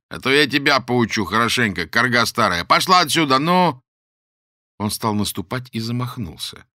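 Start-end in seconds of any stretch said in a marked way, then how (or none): 0.1-3.8 loud rising threats; threatening shout. Acted. The man drives the old woman away, shouting threats.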